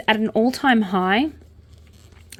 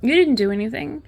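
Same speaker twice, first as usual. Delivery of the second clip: higher-pitched mimicry of questioning people; imagined critics; 5 semitones higher than usual. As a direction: imitate doubters in a raised pitch. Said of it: "a lot of people will be like".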